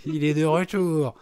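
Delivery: cartoon villain, slow and menacing. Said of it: "Je fais hyper bien les voix de méchants".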